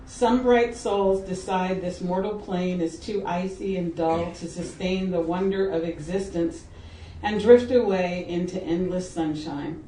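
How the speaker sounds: measured, even poetry recital; poem reading. Acted. Poet reading an epigraph to an audience, measured recital. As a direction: read the epigraph with careful phrasing.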